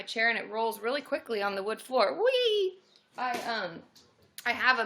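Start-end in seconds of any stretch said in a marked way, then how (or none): 2.1-2.8 high-pitched gleeful whee; playful squeal. Real, not acted. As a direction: let out a high whee, like on a ride. Rolling across floor in chair.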